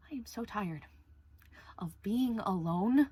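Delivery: tearful whisper. Real, not acted. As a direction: whisper it, worn out and lonely. Lonely confession.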